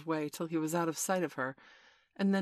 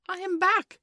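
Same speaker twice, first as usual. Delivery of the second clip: very high, loud indignation; hotly; 9 dB louder than usual. A narrator's reading. Peter annoyed at the silence, speaking hotly. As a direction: announce it in a piqued shout. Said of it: "he said hotly".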